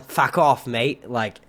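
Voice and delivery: badly faked Australian accent; amateur attempt at an Australian voice; terrible Australian accent. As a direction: do a hammy, unconvincing Aussie accent. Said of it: "That was my Australian accent. It was terrible".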